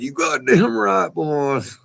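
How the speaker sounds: retold loud defiant reply to the agent; defiant retort. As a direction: throw it right back at them. Snapping back at border patrol.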